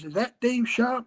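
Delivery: put-on half-hearted American accent on a phone greeting; attempted American accent. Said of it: "the guy had an American accent".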